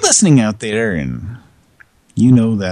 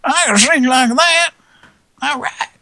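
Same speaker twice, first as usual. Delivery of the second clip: wannabe rock singer. Retold or imitated. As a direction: puff up like a bar-band singer. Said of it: "Just decided, like".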